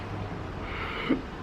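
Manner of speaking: breathy gasp of shock. Retold or imitated. Told his nerve is dead, a shocked gasp. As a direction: suck in air as the news lands. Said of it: "And I was like".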